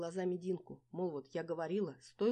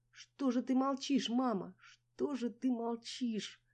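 angry hiss; 8 semitones higher, 6 dB louder, much slower than usual. A narrator's reading. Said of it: "злобно зашипела я в трубку".

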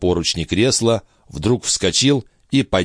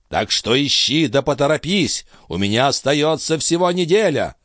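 put-on high, strained old man's voice; old master's voice; 7 semitones higher than usual. A narrator's reading. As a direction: play the frail, urgent old alchemist. Althotas demands.

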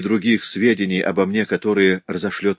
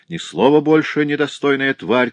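raised, higher-pitched angry order; narrator's restrained shout of contempt; cried out; 6 semitones higher than usual. A narrator's reading. Master cuts off the servant girl, crying out angrily. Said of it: "крикнул он".

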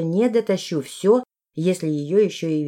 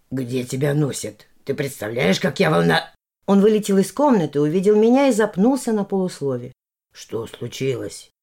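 Valdemar voice. Acted.

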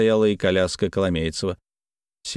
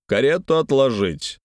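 command; 4 semitones higher than usual. Acted. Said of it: "скомандовал".

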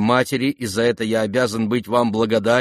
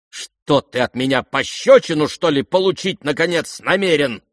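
higher, louder menacing retort; threatening outburst; 5 semitones higher, 4 dB louder than usual. Acted. Lizaveta threatening the prince with a slap, angry. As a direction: warn him off with a slap.

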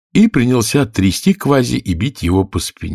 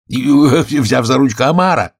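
higher, louder interjection; excited storybook gryphon call; cried out; 6 semitones higher, 4 dB louder than usual. A narrator's reading. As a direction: burst in with a shout. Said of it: "закричал Грифон".

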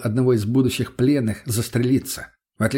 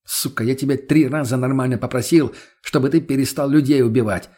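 irritated. Acted. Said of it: "раздражённо бросил ему я".

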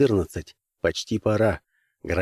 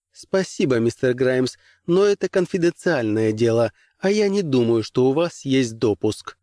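haughty commissioner; 2 semitones higher than usual. Acted. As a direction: politely put him down. Commissioner refuses, mocking tone.

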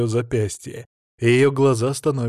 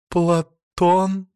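high, bleating coy woman's voice; bleating high coquettish call; 7 semitones higher, 3 dB louder than usual. A narrator's reading. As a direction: bleat the name, batting lashes. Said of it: "блеет она и ресницами хлопает".

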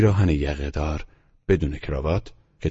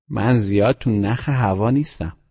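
put-on boy Teddy's voice; 6 semitones higher, 5 dB louder than usual. Teddy's voice in the story.

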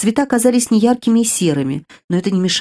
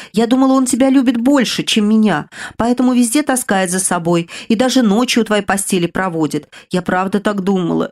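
light mock wail. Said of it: "Взвыла она".

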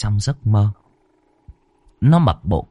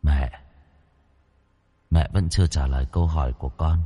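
low, much softer hollow voice of a dead son; eerie ghost child; 6 semitones lower, 6 dB quieter than usual. Acted. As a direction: speak like a ghost come home at night. Ghost son answers mother. (giọng hồn ma đứa con, trầm và nhỏ)

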